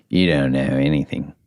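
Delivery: clumsy attempt at an Australian accent; half-successful Australian impression; bad Australian accent. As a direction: imitate an Australian friend, accent badly faked. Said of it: "That was a pretty bad accent".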